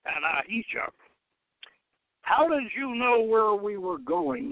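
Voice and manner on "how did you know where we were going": sharp, higher, insistent question; demanding. A narrator's reading. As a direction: demand an answer from the captive. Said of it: "the purple dragon demanded".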